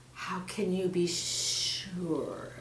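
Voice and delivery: menacing snake. Acted. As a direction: let the threat hang quietly.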